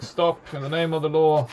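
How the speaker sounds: mild mock yell of authority; mock scream. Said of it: "he screams to the zombies".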